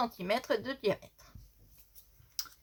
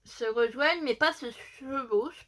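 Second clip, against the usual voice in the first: slight lisp from missing dental brace; 2 semitones higher than usual. Real, not acted. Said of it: "je zozote encore un peu".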